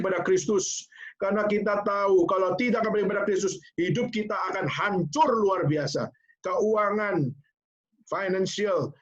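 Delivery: rally her with growing conviction; fervent urging. Retold or imitated. Husband urging his wife.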